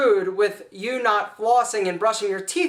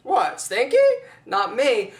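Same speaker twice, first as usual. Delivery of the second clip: laughing. Acted. Playing innocent, laughing.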